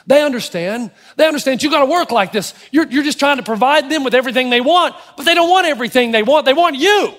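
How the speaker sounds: the devil's voice sweet-talking him; tempting inner voice. Retold or imitated. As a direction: coax him, rising as you go. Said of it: "there's a voice that tells you".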